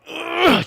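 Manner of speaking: loud, high straining "ugh"; effortful growl of exertion; strained grunt. Acted. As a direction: grunt as if crushed by force. Acts out straining under six Gs.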